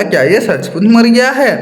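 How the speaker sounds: lightly voiced crafty jackal; cunning. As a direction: fish for the truth with a sly tone. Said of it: "वो चालाकी से बोला".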